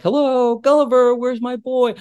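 high singsong call to a pet; pet-greeting voice. Retold or imitated. Visitor arriving at the shack to see the bird, singsong greeting. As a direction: coo loudly in a very high voice.

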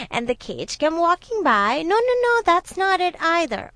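high-pitched dithering, bursting into loud "no, no, no"; flustered self-correction. A narrator's reading. Jackal playing dumb for the tiger, rising fluster. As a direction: play muddled, then panic at the mistake.

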